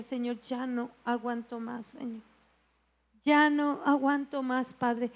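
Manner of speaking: soft, worn-out pleading; a hint of tears, barely voiced; retold tearful prayer. Woman crying to God alone in her bedroom, soft and worn out. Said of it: "me solté a llorar".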